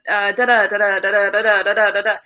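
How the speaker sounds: quick, busy run of da da da; rapid chatter. Retold or imitated. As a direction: rattle off the syllables fast like nagging chatter. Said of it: "The ego sounds like a".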